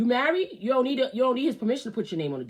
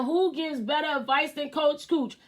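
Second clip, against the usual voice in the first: hype question; 7 semitones higher than usual. Acted. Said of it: "I said".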